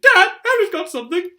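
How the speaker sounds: very high loud yell; sudden tattle. Acted. Dudley telling on Harry, a high loud yell. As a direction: blurt it out to get Harry in trouble. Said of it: "said Dudley suddenly".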